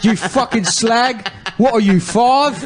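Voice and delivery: mock British accent. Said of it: "sounds a lot like you're a South African".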